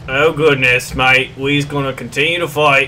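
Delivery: put-on hammy British wartime-speech accent; terrible British accent. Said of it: "sorry for my terrible accent".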